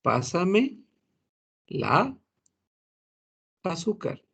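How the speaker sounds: "la azúcar" with the two A sounds fused into one; linked "la azúcar". Shown as a demonstration. Teacher showing the misheard phrase to the class. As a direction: run "la" straight into "azúcar". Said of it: "Vaya, pensamos que dice".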